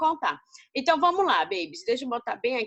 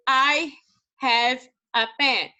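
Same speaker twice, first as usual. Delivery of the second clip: slow spelled-out read; 4 dB louder, much slower than usual. Shown as a demonstration. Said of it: "Aí eu coloquei aqui".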